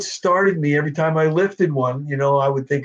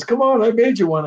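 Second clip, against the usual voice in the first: father's voice; 8 semitones higher than usual. Retold or imitated.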